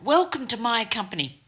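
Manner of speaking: high, booming mock welcome. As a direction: imitate a boss booming out a welcome. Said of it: "booming voice".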